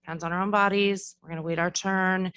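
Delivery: a teacher setting a classroom rule; calm teacher voice. Shown as a demonstration. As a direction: kindergarten teacher coaching a child to stop and wait. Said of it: "the language might be".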